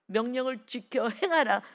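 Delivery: repeated command, picking up in force; firmer, moving preacher's delivery; insistent command. Acted. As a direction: press the command home to the congregation.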